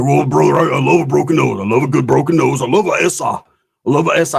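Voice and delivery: imitating a Mexican Spanish accent, relaxed; lightly voiced Mexican uncle. Voicing Theo's accented talk.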